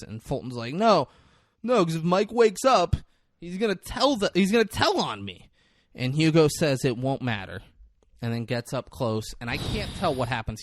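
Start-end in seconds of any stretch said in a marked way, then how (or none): 0.7-5.5 mock panic. Retold panicked character.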